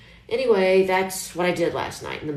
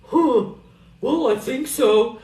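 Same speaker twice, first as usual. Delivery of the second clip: higher, louder, unsure mock puzzlement; puzzled; 7 semitones higher, 6 dB louder, slower than usual. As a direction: sound caught off guard and unsure. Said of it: "myself and thinking".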